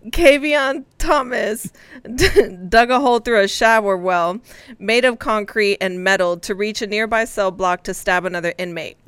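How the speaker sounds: measured, matter-of-fact news reading; grown-up news read. Shown as a demonstration. Co-host re-reading the jail story for teasing colleagues, grown-up news read. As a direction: read it out like a serious adult. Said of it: "read this as an adult for you".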